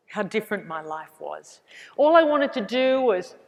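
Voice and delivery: ordinary talk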